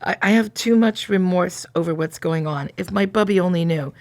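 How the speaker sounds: measured first-person confession read aloud; story narration. A narrator's reading. Confessing remorse over what's going on, in a narrating voice. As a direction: read the guilt out evenly, line by line.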